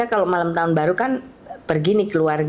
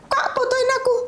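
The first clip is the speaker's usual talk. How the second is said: put-on very high, childlike begging voice; imitated pleading. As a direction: plead like a spoiled little sister, pitched way up. Daughter begs sibling for a photo. (menirukan adik manja memohon)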